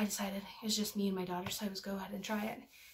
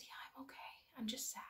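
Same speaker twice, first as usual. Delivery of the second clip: very soft, hushed reassurance; subdued sadness; 3 semitones higher, 13 dB quieter, faster than usual. Retold or imitated. Crying mother answering her worried daughter, subdued and sad. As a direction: reenact a small, quiet admission of sadness.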